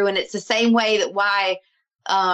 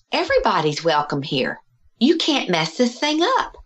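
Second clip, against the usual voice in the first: lucid announcement, lifting high at the end; imitating a father's sudden certainty; clear as day; 3 semitones higher than usual. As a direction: retell it as a clear revelation. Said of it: "he's speaking just like that".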